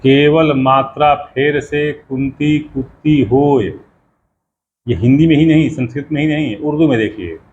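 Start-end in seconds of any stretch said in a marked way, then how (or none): 0.0-3.7 slow rhythmic verse line; recited couplet. Shown as a demonstration. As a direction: recite the doha with weight. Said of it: "couplet quote".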